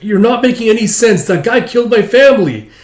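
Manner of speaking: loud, high, shaking with rage; girl screaming that he killed her family; furious shout. Acted. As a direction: hurl it at him. Arguing with Tao.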